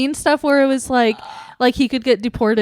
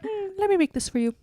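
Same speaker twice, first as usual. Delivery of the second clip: ASMR roleplay voice; 10 semitones higher, 5 dB quieter than usual. Retold or imitated. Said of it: "She's like".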